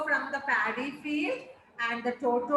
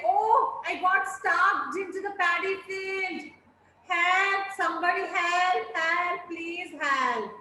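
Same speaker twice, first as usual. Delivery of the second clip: shouting for help; 2 semitones higher than usual. Acted. A stuck boy calls to anyone nearby, a light mock cry for help. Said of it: "He was shouting for the help".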